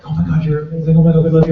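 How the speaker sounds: gushing fans. Retold or imitated. Fans at a convention, gushing imitation.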